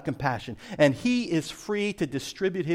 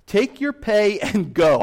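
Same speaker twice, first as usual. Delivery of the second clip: stern dismissal; 4 semitones higher, 6 dB louder, slower than usual. Acted. Landowner rebukes the worker.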